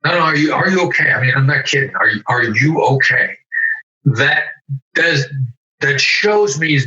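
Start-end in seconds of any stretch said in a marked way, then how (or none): 0.1-3.4 quick opening, then pressing "are you okay?"; insist, leaning on "you" in "are you okay?"; urgent concern. Shown as a demonstration. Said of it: "If I come back with".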